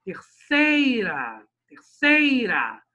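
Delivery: "terceira" with a long, loud SEI; slow, emphatic "terceira", falling after SEI; stress on SEI. Shown as a demonstration. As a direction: stretch SEI in "terceira" and swallow the final "ra". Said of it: "urá não aparece pra rimar".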